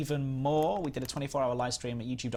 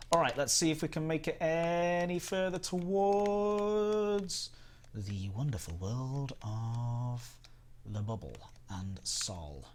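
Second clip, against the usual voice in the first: grand narrator voice; 5 semitones higher, much slower than usual. Acted. Drawn-out mock grand narration.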